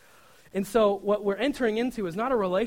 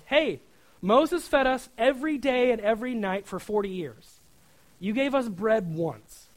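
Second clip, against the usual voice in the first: mock complaining crowd; 5 semitones higher, 5 dB louder than usual.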